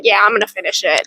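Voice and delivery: matter-of-fact flip to certainty; mock confident self-quote. Reader mocking her own quick decision, flat and sure. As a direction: state it plainly, decided. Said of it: "and then just go".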